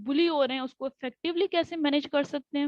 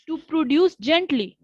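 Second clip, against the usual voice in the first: slow and gentle; 3 semitones higher, 8 dB louder, much slower than usual. Shown as a demonstration. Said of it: "ये practice कैसे होगी".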